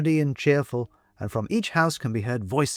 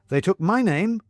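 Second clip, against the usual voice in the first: higher, heartfelt thanks; china woman, grateful; 5 semitones higher than usual. Acted.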